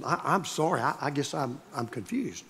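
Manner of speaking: soft, sheepish mock apology; mock confused. Pastor feigning confusion to the angry lawyer, soft and sheepish. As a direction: play dumb softly, feigning confusion. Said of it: "I said".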